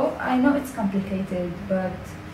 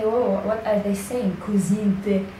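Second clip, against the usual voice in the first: puzzled outsider. Retold or imitated. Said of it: "So don't say".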